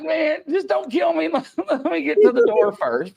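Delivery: high-pitched hammed-up begging; mock pleading. Comedian retelling begging to reach the door, high mock panic. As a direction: plead for your life in jest.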